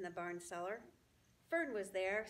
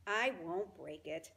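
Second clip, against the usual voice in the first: snarled; 2 semitones lower, 4 dB louder, slower than usual. Acted. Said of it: "snarled Templeton".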